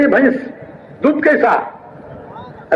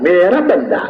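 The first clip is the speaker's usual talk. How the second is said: lovingly; 3 semitones lower than usual. Acted. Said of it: "अल्लाह प्यार से कहता है".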